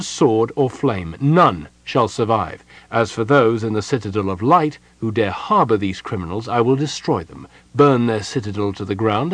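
formal, emphatic proclamation; stern official letter, each demand weighted; threatening dispatch read aloud. A narrator's reading. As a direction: read out an imperious ultimatum.

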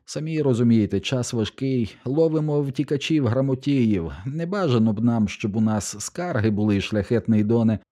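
a cowed guard talking his way out; fawning excuses. Acted. Stormtrooper backing away before the noble, fawning and high.

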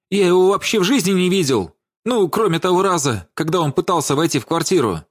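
high, panicky protest; hysterical. A narrator's reading. Владимир swears he never saw the dead man, hysterical. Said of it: "выкрикнул он истерично".

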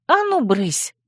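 high-pitched shooing; barked order. A narrator's reading. Heroine sending Vemut out the door, barked order. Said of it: "рявкнула я".

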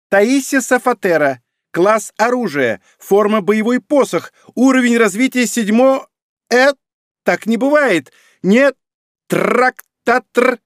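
unnaturally high, loud squeak; rubbery high squeaky toy. Acted. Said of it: "пропищал каким-то неестественно высоким голосом".

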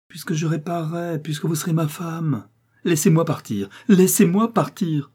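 high, rising desperate plea; pleading plea. Acted. Riri begs the count to release her, high desperate plea. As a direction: beg him to let you go, voice climbing.

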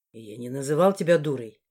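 low man's denial. Acted. Morris denies calling her a fool, low voice.

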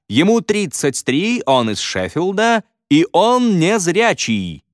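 high, slow showman announcement building to a big finish; объявление ведущего. Acted. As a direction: hype up the crowd like a TV host. Ведущий представляет участника на шоу. (торжественно, нараспев, как ведущий шоу)

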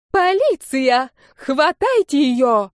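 high, loud, slow yell for the police; full-lung shout. A narrator's reading. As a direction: scream it at the top of her lungs. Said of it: "закричала она во всю мощь". (крик во всю мощь лёгких)

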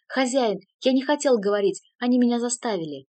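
loud pleading cry to his master; shout. A narrator's reading. Servant shouting excuses to his master, loudly. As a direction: blurt it out loudly, begging. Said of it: "он сразу же закричал".

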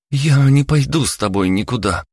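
a daughter digging her heels in; defiant outburst. Acted. Daughter defies mother.

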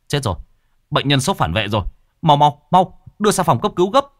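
urgent shout rising high and loud; shouting urgently. Acted. Doctor calls staff to the emergency room, urgent shout. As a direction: yell for help, patient in shock. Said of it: "thì hô to".

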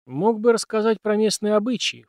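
indignant little complaint; snorting reproach. A narrator's reading. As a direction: huff it as a reproach to the teacher. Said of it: "фыркнул я".

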